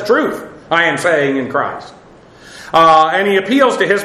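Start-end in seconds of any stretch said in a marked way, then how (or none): 0.0-1.9 TRUTH set out slowly ahead of the rest; slow, weighty "Truth" opening the statement; stress on TRUTH. Shown as a demonstration. Preacher rendering Paul's emphatic word order, stress on TRUTH. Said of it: "capitalize all the letters".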